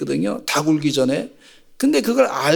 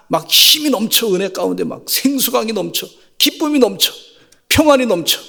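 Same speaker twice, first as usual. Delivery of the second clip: fervent preaching; 4 semitones higher than usual. Real, not acted. Rising sermon climax.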